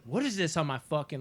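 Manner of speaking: retold snap of anger; crazy angry grandma. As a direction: imitate grandma suddenly losing it. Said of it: "She snapped back into that crazy character".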